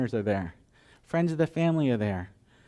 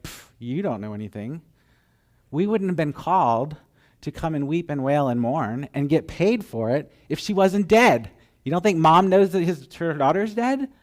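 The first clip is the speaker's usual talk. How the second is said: scornful, building louder to the end; mocking ridicule; 3 semitones higher, 5 dB louder than usual. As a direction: jeer like he knows nothing. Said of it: "they mock him".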